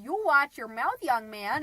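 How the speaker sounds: retold stern scolding, punched words; stern mom. Mom telling off her teenage son, stern. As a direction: pull the boy up sharply.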